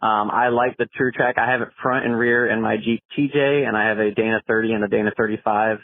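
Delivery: phone message playback; recorded caller on the line; voicemail. Real, not acted. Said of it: "let's see what Matt has to say".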